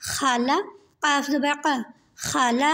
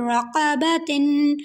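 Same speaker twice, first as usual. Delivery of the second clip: slow blending; much slower than usual. Shown as a demonstration. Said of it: "پہلے دو کو ملا کے پڑھیں گے".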